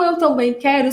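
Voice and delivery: earnest, without any crying; super sincere. Retold or imitated. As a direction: say it as a heartfelt "me too". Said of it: "super sincero".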